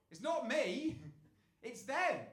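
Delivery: loud and high, stress on not. Retold or imitated. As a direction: insist it's them. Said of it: "They always go".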